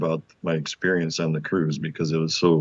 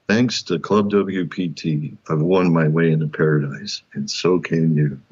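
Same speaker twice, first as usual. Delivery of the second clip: commercial tagline; 3 semitones lower than usual. Retold or imitated. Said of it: "and I paused, and I, I said".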